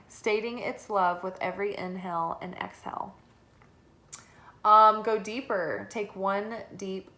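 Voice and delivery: calm, measured reading voice; guidebook reading. Acted. Reads guidebook card text.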